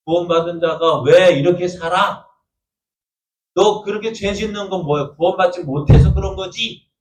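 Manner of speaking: the devil needling a believer, pushing hard; devil accusing. Retold or imitated. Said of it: "하고 계속 푹푹 찌를 때". (몰아붙이는 마귀의 비난)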